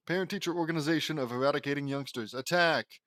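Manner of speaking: rally the troops, then bark the charge; battle cry. Acted. Principal villain shouts attack.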